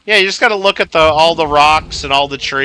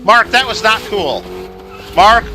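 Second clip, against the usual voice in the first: playful telling-off, higher at first, easing down; mock mad scolding; 5 semitones higher, 3 dB louder than usual. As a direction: scold him like a naughty pet, half-serious. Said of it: "This is my mad voice".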